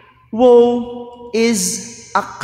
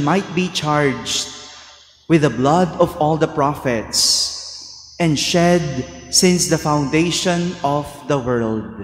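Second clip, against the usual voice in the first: Gospel reading; 2 semitones lower than usual. Acted. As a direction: read it like scripture at Mass.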